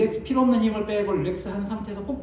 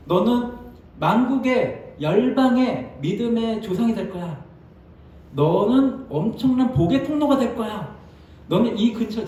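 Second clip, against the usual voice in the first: higher, louder and slow, proclaiming; raised, stately voice of God promising; God's promise; 5 semitones higher, 4 dB louder, slower than usual. Retold or imitated. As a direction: announce it like a solemn blessing from above.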